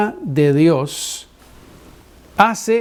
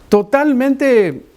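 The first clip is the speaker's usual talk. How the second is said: stretched out slowly, a notch higher; drawn-out emphasis; 6 semitones higher, much slower than usual. Acted. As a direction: lean on it in disbelief. Describing the shabby stranger.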